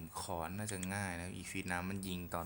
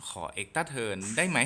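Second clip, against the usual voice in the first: pleading; 4 semitones higher, 6 dB louder, much slower than usual. Real, not acted. Begs the game for a turn.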